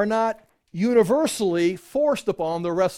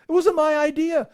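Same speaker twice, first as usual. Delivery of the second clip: high, louder, protesting innocence; defensive Peter; 9 semitones higher, 5 dB louder than usual. Acted. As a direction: throw up your hands, not my fault. Peter defending himself to leaders.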